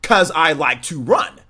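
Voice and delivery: slow, cheeky sass on "'Cause I like to run"; sassy. Retold or imitated. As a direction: toss it back with sass. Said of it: "I said it with so much sass".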